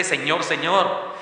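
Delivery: "Señor, Señor" drawn out slowly, ironic; slow ironic plea; mock pleading. Shown as a demonstration. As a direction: stretch both words like a fake plea. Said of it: "Es la idea de este".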